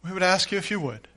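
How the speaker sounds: measured, reverent prayer with long pauses; leading prayer. Real, not acted. Leads the congregation in prayer.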